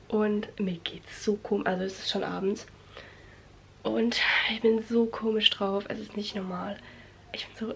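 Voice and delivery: soft unvoiced evening whisper. Real, not acted. Evening, feeling strange, whispering. (geflüstert)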